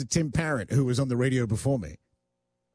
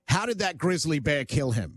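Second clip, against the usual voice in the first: ordinary talk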